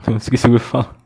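quick sheepish laugh; laughing at self. Real, not acted. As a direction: rush it out laughing.

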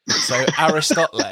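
"Aristotle" ending "-POHT-lay", with a laugh; Aristotle like Chipotle. Shown as a demonstration. Host laughing through the swap, Aristotle like Chipotle. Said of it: "pronounced like Chipotle".

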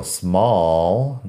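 British English vowel in "small"; "small" in a demonstrated British accent. Shown as a demonstration. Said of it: "En inglés británico".

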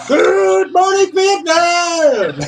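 high, loud, slow drawn-out radio DJ bellow; loud high stretched-out DJ catchphrase; Good Morning Vietnam bellow. Retold or imitated. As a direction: roll back and belt it like the famous radio call. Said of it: "he just rolled back and".

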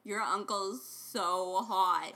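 slow, drawn-out "so hot" with a laugh; mock sarcasm. Shown as a demonstration. Flipping the uncle joke around, laughing exaggerated emphasis. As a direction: stretch "so hot" while starting to laugh. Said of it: "Or it could be the opposite".

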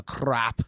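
"crop" with a rolled R; trilled R at the start of "crop". Real, not acted. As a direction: roll the R in "crop". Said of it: "you rolled your R on that".

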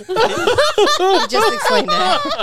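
words through laughter; breaking up laughing; laughing while talking. Real, not acted. Cracking up at friend's story.

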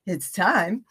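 talking around a tablet under tongue. Real, not acted. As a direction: speak with a pill under your tongue. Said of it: "If I sound a little strange, it's because I have an arnica tablet under my tongue".

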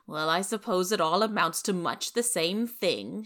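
loud, sneering and bitter; sarcastic bitterness. Acted. Rachel sneering to Marilla about Anne, bitter. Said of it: "she added with sarcastic bitterness".

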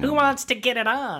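hammed-up seductive voice; sexy voice. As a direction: play it up as a hammy seducer. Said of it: "That's his sexy voice".

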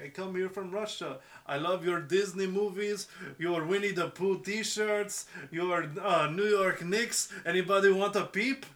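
lightly hammed-up Russian accent; slow, halting list in a put-on Russian accent; mock Russian accent. Cartoon defector praising American things, mock Russian accent. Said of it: "C I A witness protection program is like".

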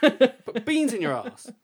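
high, loud, slow hammed-up heckle; silly put-on voice. Host mocking his friend in a silly high voice, loud and slow. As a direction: drag it out as a daft taunt.

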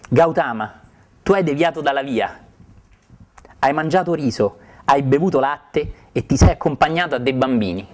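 mild outburst. Acted. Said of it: "Poi Condanna sbottò".

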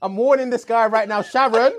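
high, mock panic, laughing through; frantic, begging colleague to take over; nervous breakdown. Operator panicking, calling Sharon.

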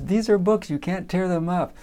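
mildly exasperated teacher, settling down; freaked-out teacher. Retold or imitated. Teacher tells boy not to tear books, imitated dismay. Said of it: "the teacher freaked out".

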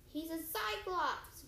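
slow it down to warn a friend. Acted. Grover cautioning Percy about the Cyclops, slow warning. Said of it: "Grover warned".

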